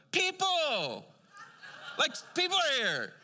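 high, loud excited cry of people; hamming up the pub guys' delight; excited shout. Retold or imitated. Pub guys greeting newcomers, high loud excited shout. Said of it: "these guys go".

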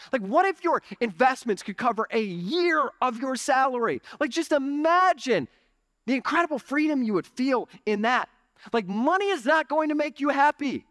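high-pitched, urgent sermon delivery; fired-up preaching. Real, not acted. Pastor asking church to imagine financial freedom, in fired-up preaching. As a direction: lift the pitch and preach the vision.

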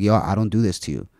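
imitating his calm, measured objection; understated, controlled telling-off; retold calm firmness. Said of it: "And he said it so calm".

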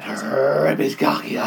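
whispered mischievous urging. Pretend. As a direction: whisper it like a sly tempter. Egging on during game.

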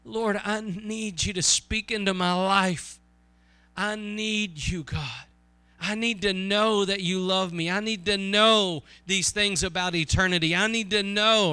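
heartfelt plea to God; pleading prayer. Acted. Preacher voices a needy believer praying to God, pleading prayer. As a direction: plead it in rising, repeated appeals.

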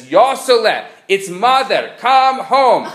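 mother pleading with her guru son; mother calling home. Acted. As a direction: call your son home like a Jewish mother. Mother calls son home, punchline.

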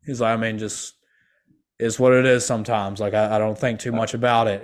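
flat, bored monotone. Retold or imitated. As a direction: say it with total indifference. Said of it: "he was using the same monotone voice".

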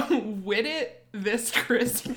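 Wit It This Christmas in a slow AAVE accent. Shown as a demonstration. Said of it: "my A A V E voice isn't warmed up".

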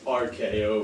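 fighting game announcer. Acted. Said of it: "I call out in an announcer voice".

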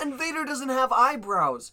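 high, loud and slow, savoring it; excited. Real, not acted. Fan marveling to cohost about Vader, excited. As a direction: stretch it out in awe. Still gushing over Vader acting.

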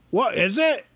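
troll voice. A narrator's reading. Trolls ask.

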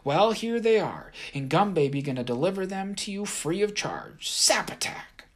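high, cocky tiny voice; Gum Baby's voice. A narrator's reading. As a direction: brag like a pint-sized fighter. Gum Baby attacks, tiny voice.

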